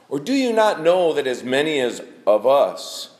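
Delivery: measured reading of the verses, slowing near the end; scripture reading. Acted. Pastor reading Romans to his church, measured. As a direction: read the passage out to the congregation. Reads Romans chapter six aloud.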